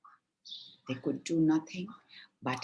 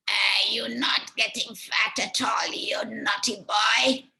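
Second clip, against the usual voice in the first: higher, louder, rising to a very high shout; higher witch voice building to a very high shout at Hansel; angry witch; 7 semitones higher, 3 dB louder than usual. Acted. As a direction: scold the naughty boy like a furious hag. Witch scolds thin Hansel.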